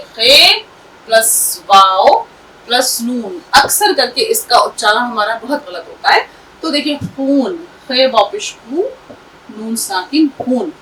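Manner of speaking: खून with a throaty ख़ sound, ख़ून, vowel held long; correct Urdu khe. Shown as a demonstration. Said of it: "खे की आवाज सही निकालिए". (खून को ख़ की गहरी आवाज़ से बोलना)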